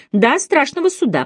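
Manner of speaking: «страшного» stressed high and firm; with emphasis. A narrator's reading. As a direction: lean hard on «страшного суда». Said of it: "повторила она с ударением". (с ударением на «страшного»)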